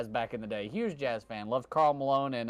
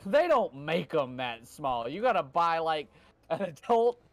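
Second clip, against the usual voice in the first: Bill Engvall bit; 5 semitones higher than usual. Retold or imitated. Retelling an Engvall joke to a friend, lightly hammed stand-up. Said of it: "Bill Engvall wrote a joke".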